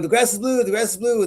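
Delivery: high, singleminded donkey voice; insistent donkey. Acted. Donkey insisting to the lion, high-pitched and stubborn. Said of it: "donkey's looking at him going".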